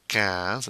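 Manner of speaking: "quinze" said with K and a nasal vowel; French "quinze", no W sound. Shown as a demonstration. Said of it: "Q U making the K sound".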